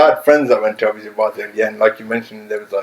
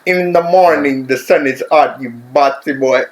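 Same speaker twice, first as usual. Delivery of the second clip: Jamaican accent; slower than usual. Shown as a demonstration. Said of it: "let me hear it again".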